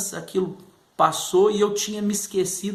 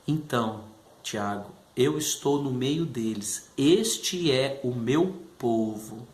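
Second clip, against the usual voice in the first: lower, slow solemn voice; voice of God; 6 semitones lower, slower than usual. Retold or imitated. The Lord answering Tiago in prayer, slow lowered solemn voice. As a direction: speak as a calm, grave God.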